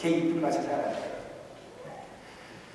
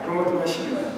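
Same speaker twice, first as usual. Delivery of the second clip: quiet echo; 2 semitones lower, 6 dB quieter, much faster than usual. Shown as a demonstration. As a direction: murmur the phrase back to yourself. Preacher repeats the verse phrase.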